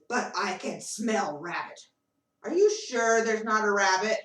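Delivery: a fox that isn't fooled; suspicious fox. Acted. Fox questions the animals, low and suspicious. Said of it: "The fox says".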